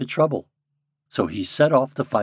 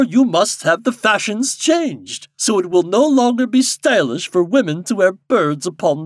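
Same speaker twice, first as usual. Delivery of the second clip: commanding king; 11 semitones higher, 8 dB louder than usual. A narrator's reading. King instructing Popopo in his duty, imperiously. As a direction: declaim the orders grandly, drawing words out.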